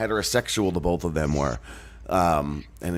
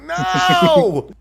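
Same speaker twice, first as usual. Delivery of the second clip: high, loud sing-song hello; sashay in with a high camp greeting; mock flamboyant greeting; 6 dB louder, much slower than usual. Friend joking after man candy chant, high camp greeting.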